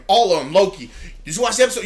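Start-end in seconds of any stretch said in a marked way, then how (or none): 1.2-1.8 high, loud excited imitation; cheerful eagerness. Podcaster imitating his friend asking about the episode, cheerful eagerness. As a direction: imitate a friend bursting to discuss it. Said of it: "he is so cheerful".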